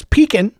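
pecan said pee-kun; pecan with a weak second syllable, pee-kun; wife's pecan. Shown as a demonstration. Imitating his wife's way of saying it. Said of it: "a third way to say it".

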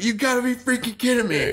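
exasperated disbelief. Retold or imitated. Exasperated retold reaction.

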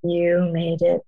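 slow, sure "You made it"; confident certainty. Retold or imitated. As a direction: say it like there's no doubt at all. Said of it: "I was confident".

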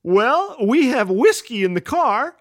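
put-on loud, high child announcement with a laugh; announcing. Little girl announcing to the whole diner, loud and high. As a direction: tell the whole diner proudly. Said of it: "standing up in the booth for all to hear".

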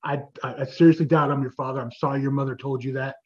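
low, halting, measured voice; steady yourself and let them down gently; imitating someone composed after an outburst; a singer calming down. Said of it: "then he catches a breath".

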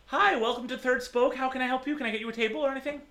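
waitress voice. Acted. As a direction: greet the party like a chirpy waitress.

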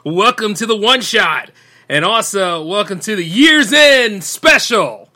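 big hyped announcer opening; radio host intro. Acted. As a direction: boom out the show welcome.

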